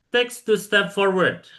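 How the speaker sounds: high, slow classroom command; slow drill instruction; teacher command. Shown as a demonstration. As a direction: give the order clearly to the class. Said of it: "teacher demonstrates the instruction".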